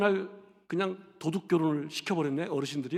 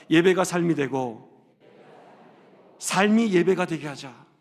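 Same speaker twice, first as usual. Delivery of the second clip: call and repeat; 3 semitones lower, 4 dB louder, slower than usual. Shown as a demonstration. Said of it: "우리 한번 따라합시다".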